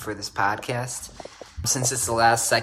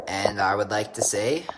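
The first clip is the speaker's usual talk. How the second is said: whisper; 2 semitones lower than usual. Acted. Builds up to a joke sign-off.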